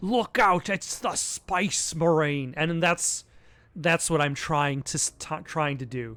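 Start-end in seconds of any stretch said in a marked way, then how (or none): 0.0-2.5 broad London Cockney British accent. Imitating the accent of the ones with the spice meringue: Cockney British accent. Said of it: "Like the Cockney uh, British".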